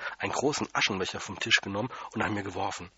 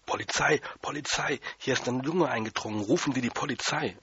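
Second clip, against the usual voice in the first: shouting into phone; 3 semitones higher than usual. Acted. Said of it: "Er hat abgenommen und reingeschrien".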